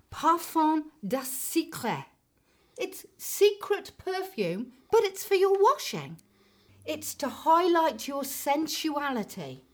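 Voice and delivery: mock a French perfume advert; French accent. Woman mimicking a fabric conditioner advert in a French accent. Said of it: "the advert is actually done with a French accent".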